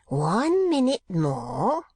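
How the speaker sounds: put-on slow, high old miser's warning; crying out. A narrator's reading. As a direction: cry it out high, drawing out the words. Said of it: "cried Arthur Gride".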